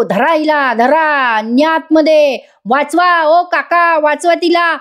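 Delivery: high, mocking shouts of help me; villain hamming up her cries for help, pitched high; villain yelling. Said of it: "स्वतःच आरडाओरडा करत असतो".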